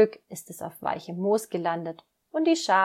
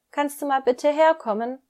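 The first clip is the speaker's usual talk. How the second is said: higher, louder plea to come; calling out; 7 semitones higher, 7 dB louder than usual. Acted. Emil calls his mother to come help, loud and high. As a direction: call mum over, keep it loud. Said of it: "ruft Emil".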